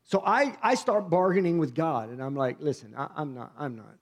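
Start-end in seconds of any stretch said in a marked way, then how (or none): 2.6-4.0 hushed pleading. Retold or imitated. Bargaining with God under breath.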